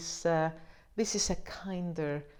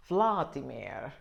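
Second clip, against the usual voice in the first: put-on Vladimir in a slow, light Russian accent; 5 semitones lower, slower than usual. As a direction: drawl the name like a Russian émigré. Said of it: "his Russian accent would have made his name sound more like".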